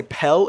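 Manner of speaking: his accent's "pel" with an e sound; pillow as pel. Shown as a demonstration. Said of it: "I say".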